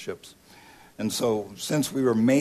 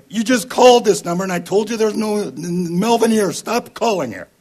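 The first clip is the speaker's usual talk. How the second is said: much higher, much louder furious yell; angry shout; 11 semitones higher, 9 dB louder than usual. Retold or imitated. Stranger yelling at the repeat caller to stop, furious. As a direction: blast the caller down the phone.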